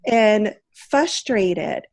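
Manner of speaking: put-on high, slow, drawn-out bored kid voice; bored whiny child. Daughter whining to mom, high and drawn out. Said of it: "went like".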